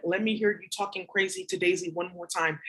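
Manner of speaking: steady vicious mate. Retold or imitated. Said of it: "and this is how he talks".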